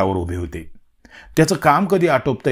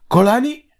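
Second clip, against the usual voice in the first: whispered surprise; 12 semitones higher, 4 dB louder, much slower than usual. A narrator's reading. Friend startled by stomach cramp.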